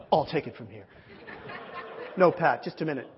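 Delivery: hammed-up, measured command; mighty man of God. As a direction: step in with self-important authority. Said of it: "I have my mighty man of God fantasy".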